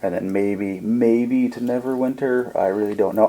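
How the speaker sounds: a gently calming refugee, lightly voiced; calm well-spoken man. Robed stranger explains his burned city to Sid, calm and soothing. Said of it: "his voice is very calming".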